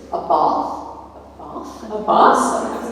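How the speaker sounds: slight Spanish accent on the word. Real, not acted. Speaker listing who she is, Spanish accent slipping out. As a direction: let a Spanish accent come through. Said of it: "my Spanish accent coming through".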